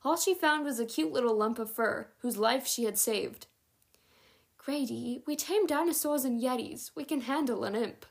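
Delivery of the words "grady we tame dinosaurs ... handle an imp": arguing. A narrator's reading. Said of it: "Adeline argued".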